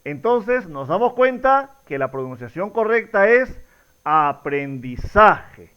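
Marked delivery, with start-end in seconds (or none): 4.0-5.7 "aprendizaje" very slow, ZA stressed, falling at the end; teacher's measured "aprendiZAje"; correct stress on ZA. Shown as a demonstration. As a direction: stretch "aprendizaje" and land firmly on ZA. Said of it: "La mayor fuerza de voz".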